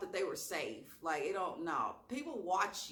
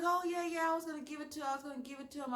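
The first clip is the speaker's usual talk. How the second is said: mock waitress; 8 semitones higher, much faster than usual. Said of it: "She was like".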